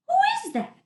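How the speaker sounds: high, loud astonished call; crying out. Acted. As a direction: shout up from the crowd. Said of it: "someone cried".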